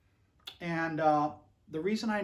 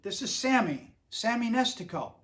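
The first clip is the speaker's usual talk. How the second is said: put-on higher, louder old-man Pittsburgh accent; Sammy Nestico's Pittsburgh accent; 5 semitones higher, 5 dB louder than usual. Old arranger phoning to praise the record, in a higher, louder Pittsburgh accent. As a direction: imitate a Pittsburgh old-timer calling, pitched up and loud. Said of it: "He talks like this 'cause he's from Pittsburgh".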